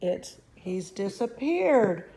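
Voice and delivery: slow, anguished cry; mother wailing her son has vanished, slow; distraught yell. Acted. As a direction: wail it in disbelief. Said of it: "yelled Missus Gloop".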